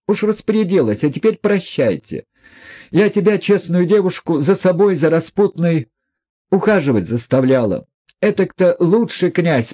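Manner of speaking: lightly voiced proud, bitter woman; proud Nastasya. A narrator's reading. Woman mocking herself before the prince, proud and bitter.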